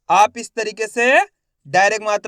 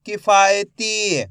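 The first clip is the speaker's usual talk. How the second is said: slow blended demo; 3 dB louder, much slower than usual. Shown as a demonstration. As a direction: draw the word out, syllable by syllable joined. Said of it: "शिक्षक शब्द जोड़कर पढ़ाता है". (धीरे-धीरे खींचकर पढ़ना)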